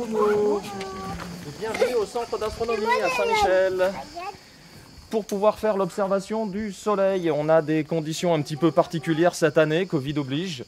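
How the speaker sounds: muffled behind a mask; speaking through a surgical mask; through a face mask. Real, not acted. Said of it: "on se reçoit avec le masque". (voix à travers un masque)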